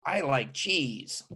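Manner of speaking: slow, soft and dazed; doddering old man. Retold or imitated. Old man at the table, slow and vague. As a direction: drift off like a senile old man.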